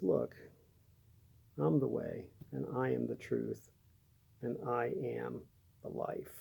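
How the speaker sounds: soft, unhurried reassurance with pauses; gentle. Acted. Jesus answering doubting Thomas about the way, gently. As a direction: explain it gently, letting each part settle quietly. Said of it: "I can imagine going kind of gently".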